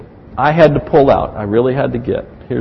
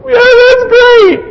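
much higher, slow, mock-bored "yeah, that's great"; flat sarcasm; 4 dB louder than usual. Pastor mimics his unimpressed wife, drawn-out mock enthusiasm. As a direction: drag it out with fake enthusiasm. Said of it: "she's going".

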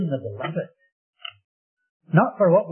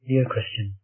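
softer, lower, tender address; loving; 4 semitones lower, 5 dB quieter than usual. Real, not acted. Preacher appeals to a Christian listener, lovingly. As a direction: say it gently and lovingly. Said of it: "Let me say lovingly".

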